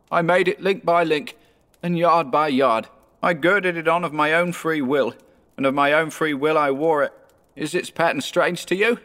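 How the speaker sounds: high-pitched ghostly lament; mournful ghost. Acted.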